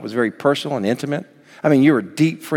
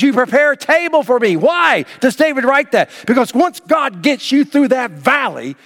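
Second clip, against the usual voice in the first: preaching at full force; 11 semitones higher than usual. Acted. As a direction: lift it up and preach it hard.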